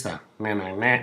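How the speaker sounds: pinched nasal na na; mock nasal na. Comic mimicking forties speech, in a mock nasal na. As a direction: squeeze the na through the nose. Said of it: "nasally of the forties".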